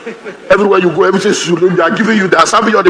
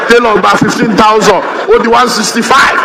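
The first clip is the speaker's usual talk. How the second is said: playful shout. Retold or imitated. Guest vows to wear asoebi.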